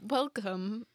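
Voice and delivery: mild automated greeting; lightly put-on recorded welcome; evenly placed, tentative machine greeting. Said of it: "make it, like, automated".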